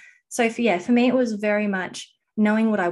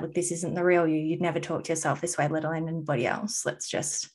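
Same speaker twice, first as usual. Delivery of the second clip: calming self-talk; 2 semitones lower than usual. Retold or imitated. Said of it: "calm down and be like".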